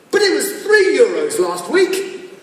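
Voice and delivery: mildly outraged passenger at the ticket desk; mock customer protest. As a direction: protest the price in acted disbelief. Acted customer protesting ticket price.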